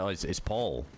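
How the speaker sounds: lightly imitated Scottish reply; a hint of mock Scottish; Scottish accent. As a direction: answer as a Scottish guy would. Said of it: "exactly the fucking same in a Scottish accent".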